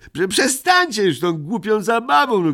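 high, stammering outcry; a child's high protesting yell; shouted. A narrator's reading. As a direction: demand they stop, upset. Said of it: "krzyknął Muminek".

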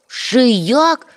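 exclaiming. A narrator's reading. Moomintroll assuring the old gentleman he liked the garden, exclaiming eagerly. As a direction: cry it out with enthusiasm. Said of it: "вигукнув мумітроль".

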